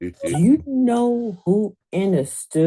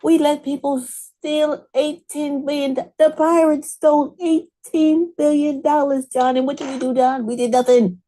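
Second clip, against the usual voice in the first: mock outrage; 7 semitones higher than usual. Mock outrage speech to John.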